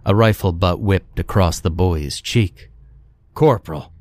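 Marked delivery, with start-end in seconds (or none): 3.3-3.9 mildly spat, higher-pitched rebuke; young lieutenant's short higher rebuke. A narrator's reading. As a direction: call the rank out as a reprimand. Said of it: "spat the young lieutenant".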